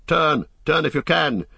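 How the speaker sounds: high, urgent order; cry of command. A narrator's reading. Aragorn orders the boats round, crying out urgently. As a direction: call out a desperate command. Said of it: "cried Aragorn".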